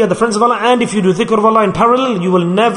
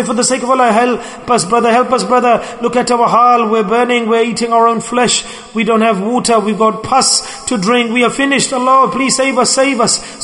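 higher, urgent plea for help; desperate begging; 4 semitones higher than usual. Retold or imitated. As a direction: beg like you are burning. Sinners begging from the fire.

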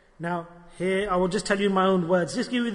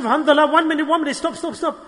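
higher-pitched retold interruption; worried; 5 semitones higher than usual. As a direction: cut in urgently, imitating a worried man. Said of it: "He was worried about himself".

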